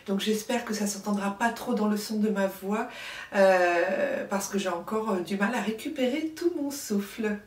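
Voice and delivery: short of breath after covid. Real, not acted. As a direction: speak with a little breathlessness. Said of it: "je suis un petit peu essoufflée". (essoufflée)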